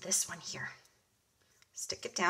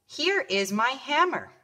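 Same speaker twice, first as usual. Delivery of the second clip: slow model sentence; 3 semitones higher than usual. Shown as a demonstration. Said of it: "putting some of these new words in a sentence".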